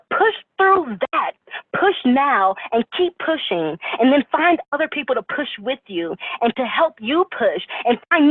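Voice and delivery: rising, urgent pep talk; fired-up motivational speech. Acted. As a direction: preach it to the team with passion. Rallying team with motivational speech.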